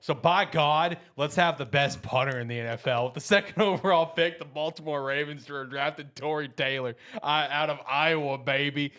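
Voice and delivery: hyped pick announcement. Pretend. Ravens general manager hypes his joke pick over music. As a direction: sell a punter pick like a blockbuster. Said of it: "Hit the damn music".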